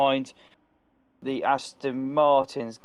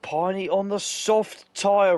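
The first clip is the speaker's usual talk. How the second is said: excited; 8 semitones higher, 4 dB louder, slower than usual. Real, not acted. Pit stop tyre call.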